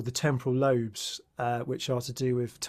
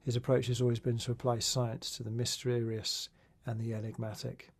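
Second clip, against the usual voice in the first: measured, softer podcast intro read; scripted guest introduction; 6 dB quieter than usual. Real, not acted. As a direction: read the guest's biography aloud, evenly and softly.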